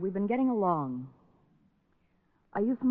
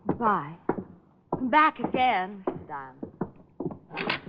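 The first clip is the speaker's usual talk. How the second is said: slow, breathy whispered invitation; a slow coaxing whisper at the door; sultry farewell; much slower than usual. Acted. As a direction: drag the name out in a hush, inviting. Wife's seductive farewell to detective.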